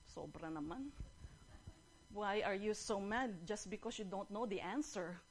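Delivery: deflated lion complaint; aggrieved lion. Acted. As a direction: protest meekly after a thrashing. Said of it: "Sabi nung lion".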